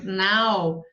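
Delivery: NAL held long and firm; stressed syllable. Shown as a demonstration. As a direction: isolate NAL and stretch it. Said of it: "o tom saiu mais alto".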